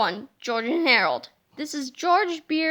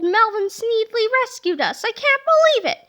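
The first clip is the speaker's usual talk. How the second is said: higher, louder, laughing in disbelief; amazed laughing; 7 semitones higher, 5 dB louder than usual. Acted. Harold can't believe Melvin saved them, laughing and high. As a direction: laugh at the impossible news.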